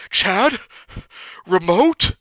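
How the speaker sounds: high, loud offered question; half-asleep friend offering the remote; imitating Millie. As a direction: hold out the remote and ask brightly. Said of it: "and just goes".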